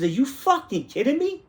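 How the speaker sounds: high-pitched indignant disbelief; retold exasperated squeal; incredulous outburst. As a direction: shoot way up in pitch, outraged. Acted outburst at the store clerk.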